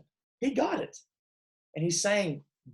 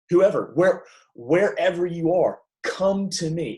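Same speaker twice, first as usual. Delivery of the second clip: raised, insistent invitation; higher, pressing call to come; urgent; 4 semitones higher, 5 dB louder than usual. Retold or imitated. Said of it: "it's kind of urgent".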